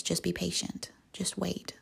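very soft, hushed voice; quiet reassurance. Acted. Jesus answers the squirming listener on the swing, quiet reassurance. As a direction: gently hush an impatient listener. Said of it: "he quietly looks at you".

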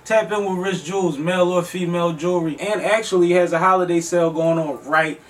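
upbeat sponsor shout-out; holiday sale ad. Acted. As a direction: hype up the sponsor.

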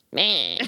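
squawky pterodactyl cry; pterodactyl noise. Real, not acted. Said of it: "I always make pterodactyl noises".

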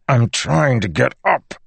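strained through clenched teeth; through gritted teeth. Acted. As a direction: force the words out past locked jaw. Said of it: "he said through gritted teeth".

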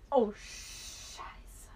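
breathy under-the-breath oh, Scheiße; whispered curse. Real, not acted. Friend painting on the face mask, cursing in a whisper. Paste applied, quiet curse.

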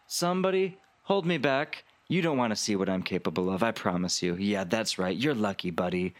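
mock-tough showing off to the room; tipsy boastful Veronica. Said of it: "she goes".

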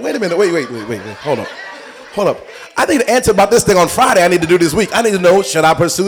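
hammed-up frantic plea; loud impatient interruption. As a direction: cut in urgently, like someone desperate for an answer. Impatient believer interrupting God.

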